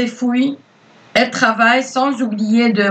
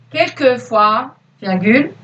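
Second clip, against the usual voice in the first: dictating. Acted. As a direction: read it out word by word for pupils. Teacher dictates to pupils.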